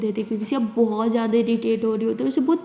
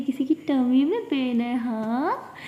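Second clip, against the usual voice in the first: teasing; much slower than usual. Acted. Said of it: "Siya को तंग करने लगती है".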